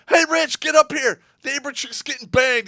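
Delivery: loud, high call to a friend downstairs; urgent excited summons. Retold or imitated. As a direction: yell up the stairs, excited. Calling buddy upstairs.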